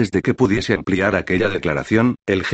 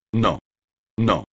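squealing. A narrator's reading. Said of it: "chilló Acechador".

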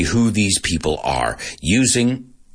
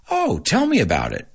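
curious; 4 semitones higher than usual. Shown as a demonstration. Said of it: "I wanna know more".

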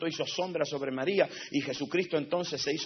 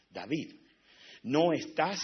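soft voice of God; slower than usual. Retold or imitated. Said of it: "le dijo Dios".

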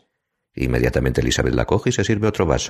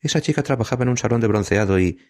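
higher-pitched, mildly gossipy aside; lightly voiced gossip; confidential gossip; 10 semitones higher than usual. A narrator's reading. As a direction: share a juicy confidence, pitched up. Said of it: "como un marica que ofrece unos cotilleos confidenciales".

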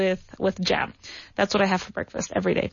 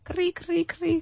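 cricket chirp imitation; 6 semitones higher, 4 dB quieter than usual. Shown as a demonstration. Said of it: "mimicking crickets for silence".

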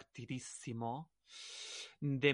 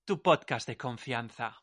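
excited greeting; 6 dB louder than usual. Real, not acted. Host greets listeners.

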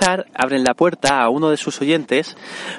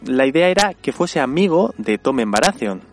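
talking with something caught in the throat; choking on a drink. Real, not acted. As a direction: voice catching mid-sentence. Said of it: "se me, me atraganta un poco".

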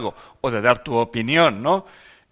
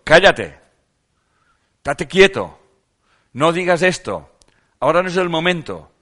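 loud, higher-pitched mock scolding; mock parental scolding; 6 semitones higher, 8 dB louder than usual. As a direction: imitate a parent sharply hushing a child. Voicing scolding parents hushing a child.

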